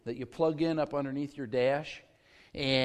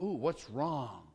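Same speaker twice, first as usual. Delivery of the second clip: worried congregation; 3 semitones lower, 8 dB quieter, slower than usual. Retold or imitated. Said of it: "it's like".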